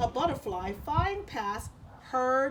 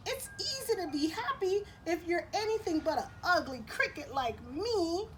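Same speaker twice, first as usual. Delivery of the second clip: lightly voiced cricket; 6 semitones higher than usual. Cricket voiced in read story.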